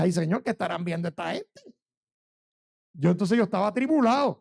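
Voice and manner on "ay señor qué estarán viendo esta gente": scared prayer. Retold or imitated. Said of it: "ahí entonces yo me asusté".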